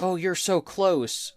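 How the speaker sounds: a hint of high anime girl, slow; mock anime girl voice. Devin imitates the claw machine's anime girl voice, lightly. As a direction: coo it like a cute machine voice. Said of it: "high-pitch anime girl doing a voice".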